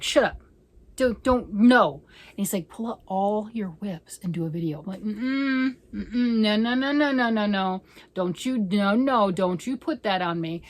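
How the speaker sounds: mock-refuse the husband's idea, loud; playful protest.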